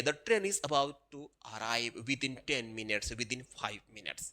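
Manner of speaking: slow, soft station announcer voice; station announcement. Retold or imitated. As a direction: read it out like a platform announcement, slow and quiet. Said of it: "बोलते हैं अभी". (धीमी, हल्की railway station उद्घोषणा)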